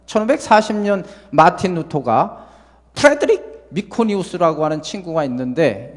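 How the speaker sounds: normal talking voice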